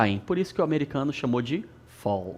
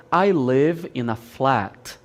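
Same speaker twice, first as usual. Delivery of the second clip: British English; 3 semitones lower, slower than usual. Shown as a demonstration. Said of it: "No inglês britânico, você fala".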